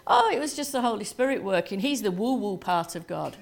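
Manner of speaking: quick, offhand imitation of a child; matter-of-fact. Child explaining the service to the minister, matter-of-fact. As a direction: imitate a child stating the obvious, briskly. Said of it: "very matter-of-fact tone of voice".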